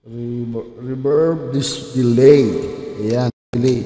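loud voice drowned in echo delay; slow and echoing through the mic delay; reverb delay effect. Shown as a demonstration. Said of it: "Delay yung boses".

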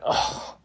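soft, airy oh; imitated sigh of dismay; deflated sigh. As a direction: let out a hushed, resigned breath. Acts out his reaction to red card.

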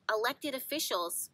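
emphasis landing on "elected", then "officials" falls away; stress on "elected". Real, not acted. Astrologer pointing viewers to who holds power, stressing "elected". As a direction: lean on the word "elected". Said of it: "emphasis on the word elected".

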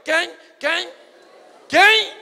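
cada vez mais alto e agudo; crescendo. Acted. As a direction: suba a tensão a cada pergunta. Pergunta repetida crescendo. (pergunta que cresce até o grito)

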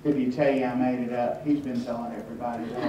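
quick, low-key mock regret; mock solemn. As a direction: imitate a man sadly letting someone down. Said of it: "he would lower his head again".

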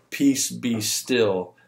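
slow, steady, unhurried words at normal volume; calm command. Retold or imitated. Jesus stilling the storm for the disciples, slow and calm. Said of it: "He just says it with a warm".

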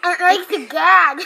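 laughing while gagging on a mouth guard; giggly through a mouth guard. Real, not acted.

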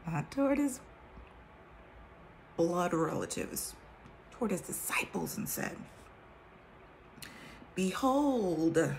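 measured King James reading voice; scripture reading. Acted. Reading the Bible to her viewers, solemn scripture voice.

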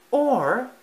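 loud, high interruption; barging in. Acted. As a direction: cut in eagerly. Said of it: "his mother barged in".

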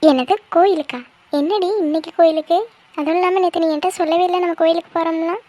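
puzzled, lively surprise; surprised questioning. Acted. Friend hears of unplanned temple trip, surprised. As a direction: question her in mild disbelief.

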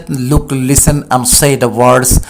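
listen and say the words read very slowly; drawn out for learners; slow classroom model. Shown as a demonstration. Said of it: "বলা হয়েছে".

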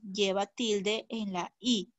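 "lleva tilde en la I" slow, leaning on "I"; slow down and land on "I"; stressing the I. Shown as a demonstration. Teacher points out the accent mark to André, slow and stressed. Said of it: "hay que tildar la palabra mío".

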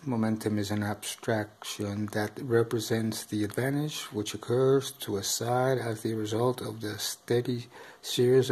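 stiff monotone rulebook reading; robotic voice. Real, not acted. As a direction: read it out flatly like a robot. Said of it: "I know I sound like, uh, a bit robotic here".

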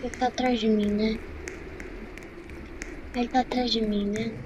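hushed, tense hiding; being chased. Real, not acted. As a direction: keep it low, hiding from a monster. Hiding from Slenderman.

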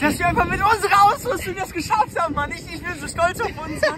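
proud, laughing through words; lachend. Real, not acted. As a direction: laugh with relief. Proud after reaching shore. (lachend vor Stolz)

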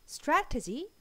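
Strategy said softly, smooth r and t. Shown as a demonstration. Teacher modelling a soft, smooth Strategy. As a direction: glide gently through Strategy. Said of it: "부드럽게 발음해서 strategy".

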